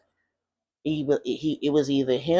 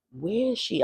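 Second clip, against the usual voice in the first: high-pitched imitation of a child's wail, without tears; retold crying plea; 7 semitones higher than usual. Child alone at the window looking for mother, mock-tearful. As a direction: mimic an upset child, pitched up. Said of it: "I'm crying, I'm crying".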